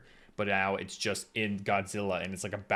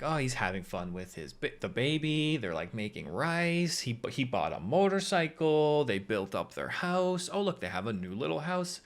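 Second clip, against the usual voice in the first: lilting list with raised line endings; light sing-song, pitched up in places; cheery montage gushing; 5 semitones higher than usual. Acted. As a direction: coo over each sweet little development. Lists happy montage in mock delight.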